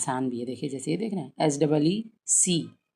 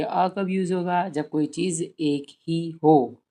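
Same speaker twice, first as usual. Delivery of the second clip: slow teaching voice; slower than usual. Shown as a demonstration. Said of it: "बच्चों से कहिए".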